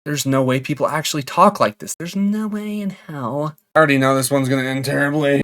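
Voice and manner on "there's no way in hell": emphatic disbelief. Real, not acted. Disbelief at the messages.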